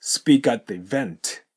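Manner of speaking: "speak at the event" run together, K joined to at; slow model with the T of at merged into "the"; linked sounds. Shown as a demonstration. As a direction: link "speak at" as "spea-kat". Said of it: "これがくっつくと".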